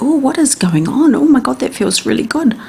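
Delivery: a hint of the brain's giddy wonder at the touch; delighted brain voice. The brain discovering feelings in the hand, mildly delighted. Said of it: "And the brain is like".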